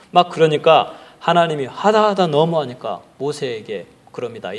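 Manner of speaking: ordinary talk, nothing marked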